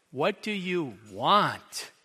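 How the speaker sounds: slow, irritated, leave me alone; annoyed. Acted. Jesus imagined as annoyed at the blind man, slow brush-off. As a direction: make it a brush-off. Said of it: "As in, "Can't you just leave me alone?".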